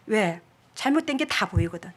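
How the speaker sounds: ordinary talk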